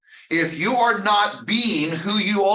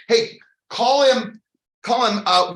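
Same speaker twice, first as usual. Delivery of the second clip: mocking call-out; 6 semitones higher, 4 dB louder than usual. Mock version of scripture, calling out.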